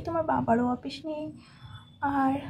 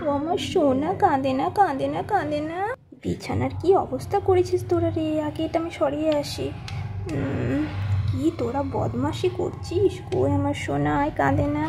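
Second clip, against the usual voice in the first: soothing mother; 2 semitones lower than usual. Acted. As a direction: hush him like a tender mum. Mother soothes crying son.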